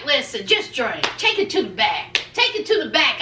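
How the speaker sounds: low, flat dismissive man's voice; lightly voiced husband brushing her off. Husband waving off wife's complaints, low and dismissive.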